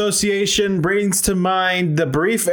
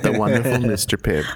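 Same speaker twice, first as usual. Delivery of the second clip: storybook title voice; 8 semitones lower than usual. Pretend. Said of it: "It's like a Wes Anderson movie".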